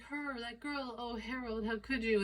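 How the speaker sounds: high, mock-wounded reproach; distraught wife. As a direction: play a hammed-up betrayed wife. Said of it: "And she's like".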